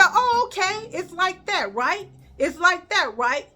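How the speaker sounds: high, sarcastic "it's like that"; threatening sarcasm. Retold or imitated. Teacher to student before storming out, high sarcastic warning. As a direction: warn her with a sarcastic tone.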